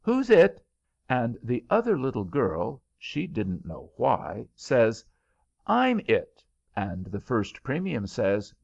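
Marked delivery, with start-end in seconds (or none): 0.0-0.6 high, loud squawk of a question; shrill little bird voice; turkey chick's call. A narrator's reading. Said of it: "that little he turkey says". 5.7-6.4 high answer. A narrator's reading. Girl answers the turkeys' game.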